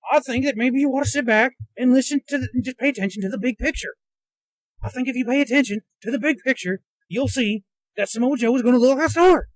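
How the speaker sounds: put-on pundit voice, a little mocking; Jim Ross. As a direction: do a rough send-up of a commentator. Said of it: "that's not the best Jim Ross impression".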